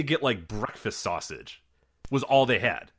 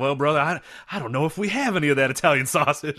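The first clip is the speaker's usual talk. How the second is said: put-on Charleston Southern accent; 3 semitones higher, 3 dB louder than usual. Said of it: "Charleston Southern accent".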